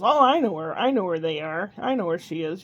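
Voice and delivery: bright helpful storybook butterfly, only lightly put on. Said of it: "the butterfly goes".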